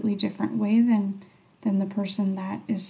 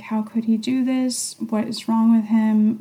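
mildly indignant, quoting your own thoughts; retold angry inner voice; 3 dB louder than usual. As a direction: voice a touch of inner outrage. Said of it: "I did notice that angry voice".

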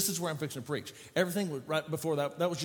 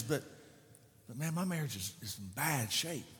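doubtful despair. Retold or imitated. Doubtful believer voiced.

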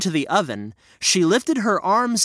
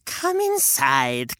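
put-on slow, low coaxing old woman; old lady coaxing; 3 semitones lower, much slower than usual. Witch lures the children, low coaxing. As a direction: draw them in gently. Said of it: "said the old lady".

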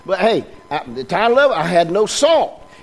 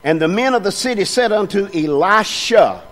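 scripture reading. Acted. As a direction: read it out with weight.

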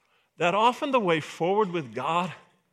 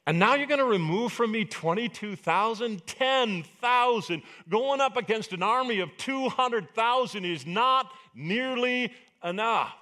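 dismayed complaint; 5 semitones higher than usual. Acted. Gideon complains to God.

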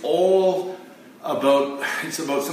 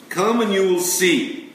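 "Come and you will see" higher and louder, with "Come" punched; emphatic invitation; 5 semitones higher, 4 dB louder than usual. Acted. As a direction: call out "Come" as a bold invitation. Quoting Jesus twice.

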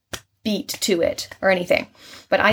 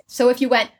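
normal talking voice

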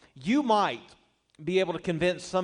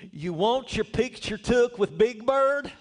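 imitating a southern drawl, higher and slower; 6 semitones higher, 3 dB louder, slower than usual. Costumed lady in the Big Bird suit asks the child, in a mock southern drawl. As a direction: ham up a southern lady's drawl, half laughing. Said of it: "in her southern drawl".

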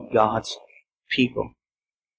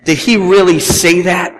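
a mocking, doubting question, pitched up; 4 semitones higher, 3 dB louder than usual. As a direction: sneer lightly at what God said. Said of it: "It's almost in a mocking way".

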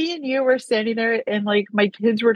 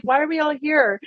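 higher, confused; puzzled little-brother question; confused kid; 6 semitones higher than usual. Retold or imitated. Ron arriving in the fireplace, asking in a confused, higher voice. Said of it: "He's like".

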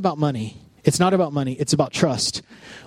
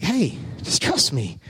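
calm reassurance; 2 semitones lower, 3 dB quieter, slower than usual. Retold or imitated. God calmly answers the worrying.

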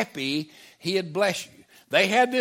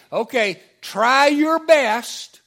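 mock stern God; 3 dB louder than usual. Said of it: "he's saying".

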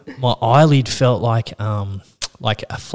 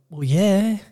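mock bafflement; 9 semitones higher, much slower than usual. Patient baffled by receptionist's fuss.

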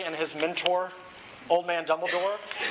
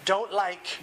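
hammed-up moan breaking into laughter; mock-miserable complaint; 3 semitones higher than usual. A narrator's reading. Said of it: "moaned Dumbledore".

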